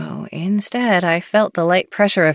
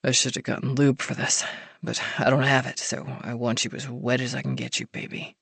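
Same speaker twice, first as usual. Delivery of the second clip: soft and low, intimate; low murmur; 4 semitones lower, 7 dB quieter than usual. A narrator's reading. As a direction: murmur close to her.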